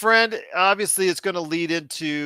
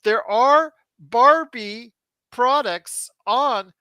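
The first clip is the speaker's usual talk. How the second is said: excited plug; 8 semitones higher, 4 dB louder than usual. Acted. Enthusiastic plug for sponsor.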